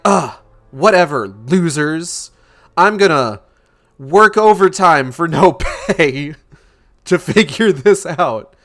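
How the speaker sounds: scoff, then ham up the do-gooder vow; mock eager Altman. Mocking Altman's eager overtime.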